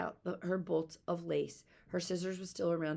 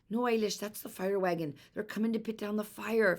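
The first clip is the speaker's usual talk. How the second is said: calling out; 5 semitones higher, 5 dB louder than usual. Acted. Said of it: "Fiona called out".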